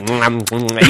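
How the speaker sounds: mock smacking "mm, mm"; imitated kissing noises. Mocking a couple making out in a bar, imitated smacking. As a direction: imitate a noisy, sloppy make-out. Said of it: "like, really loud".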